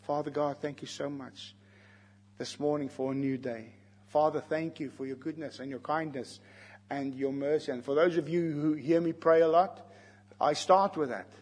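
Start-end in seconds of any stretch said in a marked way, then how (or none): 0.0-7.7 soft, lowered prayer of thanks; sample prayer. Acted. Preacher showing how he thanks God each morning, quiet prayer. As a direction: speak quietly to God as a father. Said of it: "I can speak to him".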